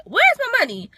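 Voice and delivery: the penny finally drops, rising panic; rising disbelief. Retold or imitated. To herself at the empty purse, high panicked disbelief.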